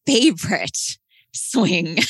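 put-on slow, sulky kid voice; a four-year-old insisting, a bit drawn out; whiny little kid. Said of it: "And he goes".

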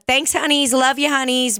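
high, singsong thanks in passing; playful honey-sweet farewell; affectionate sign-off. Retold or imitated.

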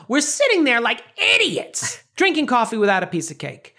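high, whiny Estelle voice; Estelle impression. Estelle complaining to her husband about the cake, high whine. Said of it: "I should say it like Estelle".

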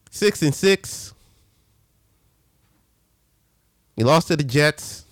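each word slow and heavy; slow, deliberate. Real, not acted. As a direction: let the bad record sink in. Stressing a bad record.

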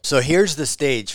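sipping coffee mid-sentence; while sipping coffee. Real, not acted. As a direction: talk around a sip of coffee. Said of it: "sorry, I'm sipping on my coffee here".

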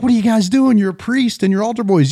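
a touch of indignant disbelief; mild rebuke. Acted. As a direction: lightly play a scandalized cardinal. Cardinal rebukes swearing boys and priest.

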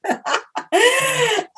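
bursts into a high laugh; real laugh, high and free. Real, not acted. Laughs at roommate story.

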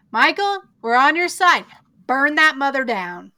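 rally him to fight back; rallying cheer. Real, not acted. Friend urging Michael to burn it down, excited. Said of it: "cheering on the character".

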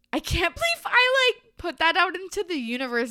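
high, loud, laughing, and rushing on; laughing disbelief. Real, not acted. Host laughs in disbelief at what she wrote during covid, high and loud. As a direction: blurt it out through laughter, half embarrassed. Disbelief at her own note.

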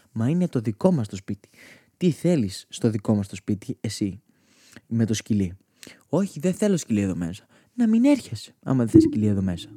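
loud, heated family argument; acted shouting match. Grandma and family fight over keeping the dog, loud and heated. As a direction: yell both sides of the fight.

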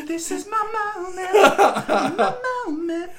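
high, slow fake-teary; mock tearful big moment. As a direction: ham up the big break. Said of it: "I need somebody to do an accent".

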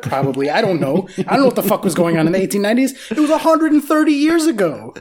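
worked-up, incredulous ranting; amped-up rant. Real, not acted. Podcast host rails at outdated football rules, amped-up rant. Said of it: "I'm all amped up this weekend".

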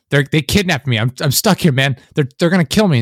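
retold desperate plea; mock panicked plea. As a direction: plead for rescue, imitating a captive. Acts kidnapped man pleading with cop.

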